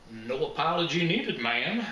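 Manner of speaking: lightly drawled mock Western accent; mock country accent. Detective teasing his dance partner, playful mock Western accent. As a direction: put on a playful cowboy twang for ma'am. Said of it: "I said in my mock accent".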